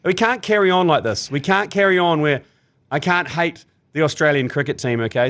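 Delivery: hammed-up plea to a cricket legend; mock outrage. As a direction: beg him in jest for villains. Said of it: "I was like".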